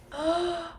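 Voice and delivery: short high gasp; excited gasp. Real, not acted. Viewer thrilled by Monica, gasping. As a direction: catch your breath in delight. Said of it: "Sorry, I'm excited, guys".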